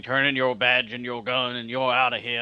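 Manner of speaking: lightly voiced Southern cop sergeant firing you; barely-there Southern accent, gruff sergeant. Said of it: "That was your best Southern accent ever".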